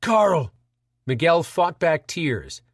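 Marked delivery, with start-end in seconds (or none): 0.0-0.5 sobbing. Acted. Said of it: "Pam sobbed".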